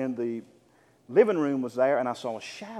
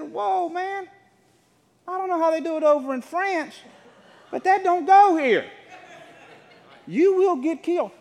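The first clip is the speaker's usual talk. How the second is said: mock stern warning; 13 semitones higher, 9 dB louder than usual. Warning the French stranger.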